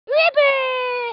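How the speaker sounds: "River" said as "Riber", B for the V. Acted. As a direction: swap the V in "River" for a B. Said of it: "I can't say my V's, and so I call it with a B".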